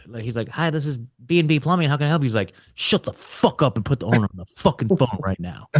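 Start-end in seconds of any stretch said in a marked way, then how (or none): 0.5-2.3 higher-pitched phone greeting; lightly voiced receptionist picking up; a hint of customer-service voice. Receptionist answering a cold call. 2.7-5.7 mock cussing-out, punching the swear words; play-acted brash demand; retold trash talk. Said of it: "like, cussing at people, trash talking people".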